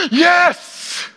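high gasp then a loud, high yes; gasp of joy. Acted. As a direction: leap with delight. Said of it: "your heart goes".

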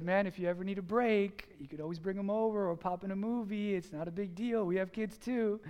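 easygoing, softened offer of help; gentle. Retold or imitated. Neighbor offering a stressed father a break, gentle. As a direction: play the gentle neighbor, lightly. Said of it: "He was very gentle with me".

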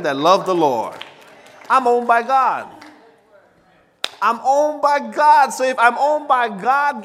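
loud, high, rising declaration; full-force preaching. Acted. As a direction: shout the promise to the church.

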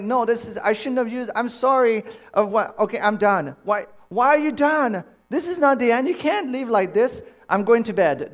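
high, loud, overwrought bickering; retold heated quarrel. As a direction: argue back in mock exasperation. Acted quarrel escalating over bad connection.

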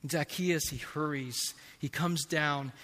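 normal talking voice

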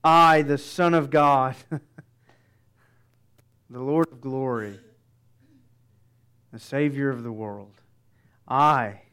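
Jesus declaring to the criminal; royal proclamation. Retold or imitated. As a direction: proclaim like a king, then bring it in close. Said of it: "this royal proclamation".

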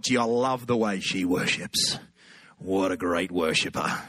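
low, slow admiring murmur; slow down and sink into admiration; smitten inner voice. Acted. Voicing his smitten thoughts at worship.

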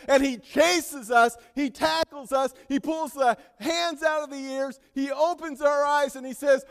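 loud, high, urgent preacher; full-force preaching. Real, not acted. Preacher picturing people fleeing from God, full-force preaching.

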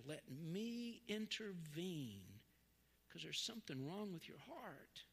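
lightly voiced Jesus correcting; a hint of tender correction; gentle Jesus.

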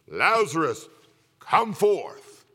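a loud, high commanding call; Jesus shouting. Retold or imitated. Preacher voicing Jesus at the tomb, loud commanding shout. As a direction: call out as if to wake the dead. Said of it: "He shouted at Lazarus' tomb".

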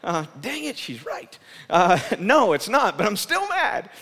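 a grumbling Jonah, hammed-up; mock grumble. Preacher voicing Jonah, a mock grumbling complaint. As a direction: play the sulking prophet, half joking.

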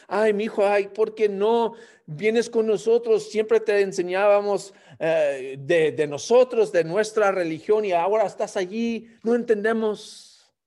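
a hint of a lamenting parent; pleading parent.

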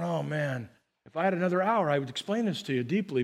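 mock congregant. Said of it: "some of you are already going".

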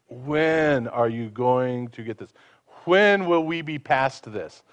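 slow, sighing, fed-up parent; tired scolding, slowed right down; weary exasperation. Shown as a demonstration. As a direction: drag it out like you've explained it a hundred times. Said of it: "with the attitude of".

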